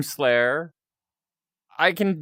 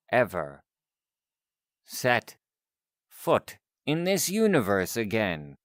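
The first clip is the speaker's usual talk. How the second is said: slow, deliberate warning with weighty pauses; stern protective scientist; 3 semitones lower than usual. Acted. Scientist ordering someone to leave them alone, stern and deliberate. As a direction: issue a measured, polite threat.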